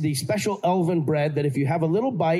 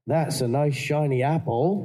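slow West Country farmer line; 2 semitones lower than usual. Retold or imitated. Actor replaying his coach's farmer recording, slow West Country. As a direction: savour it like an old farmer. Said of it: "a recording of a farmer".

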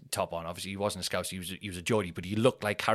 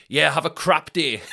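deadpan dismissal; 6 semitones higher, 9 dB louder than usual. Retold or imitated. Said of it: "he just paused and he went".

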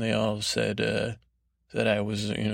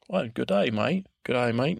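put-on failed English accent. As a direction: try English, land on jaunty Australian. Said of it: "No, that's Australian".

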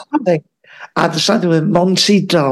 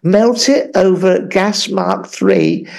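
mock Mary Berry. Mary Berry giving recipe.

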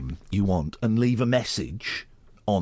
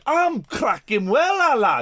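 put-on Manchester accent; 10 semitones higher, 4 dB louder, slower than usual. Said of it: "No one says that".

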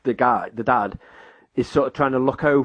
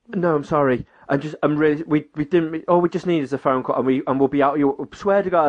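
panicked apology; 4 semitones higher than usual. Retold or imitated. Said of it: "genuinely sort of panicking".

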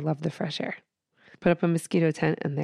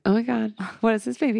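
surprised exclaim; 5 semitones higher, faster than usual. Retold or imitated. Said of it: "I was like".

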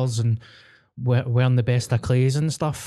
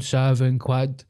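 slow smug imitation; much slower than usual. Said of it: "all of a sudden he's like".

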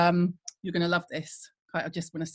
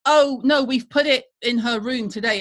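mock polite brush-off; 2 semitones higher, 6 dB louder than usual. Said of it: "so I go".

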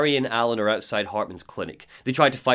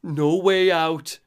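slow, higher drawn-out moan; 5 semitones higher, 4 dB louder, much slower than usual. Acted. Alan curled on the floor moaning to himself, slow moan. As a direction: moan it to yourself. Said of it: "moaning to himself".

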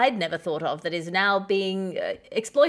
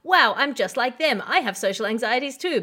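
naive gushing; 5 semitones higher, 4 dB louder than usual. Retold or imitated. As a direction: gush like a starstruck fan. Voicing naive listener.

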